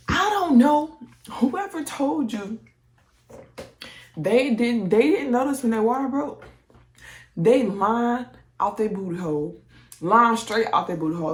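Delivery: calling out the liars, fired up; indignant rant. Real, not acted. Ranting at people who lie.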